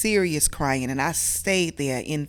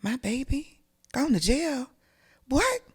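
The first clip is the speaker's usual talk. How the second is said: disbelief; 9 semitones higher than usual. Retold or imitated. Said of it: "I was like".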